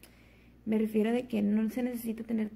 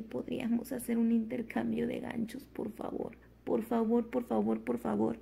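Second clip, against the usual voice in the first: playful begging; 2 semitones higher than usual. Retold or imitated. Asking mom and sister to swap hangers, playful begging. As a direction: beg sweetly like a child asking for a treat.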